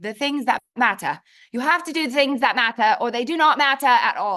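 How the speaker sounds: a hint of weird British accent; playful, slight British accent on "matter". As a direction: lightly put on a British accent. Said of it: "I start speaking in this weird British accent".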